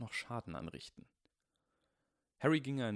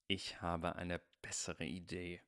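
hissing; 3 dB quieter, slower than usual. Acted. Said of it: "zischte der größte Slytherin".

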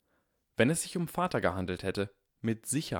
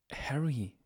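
hurt and condescending; 5 semitones higher than usual. A narrator's reading. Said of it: "klang verletzt und vielleicht ein wenig herablassend".

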